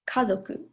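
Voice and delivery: kazoku with the weight on ka, then falling; stress on first mora. Shown as a demonstration. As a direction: say kazoku, prominence on the opening ka. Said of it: "like, the stress on the first, um, mora, ka".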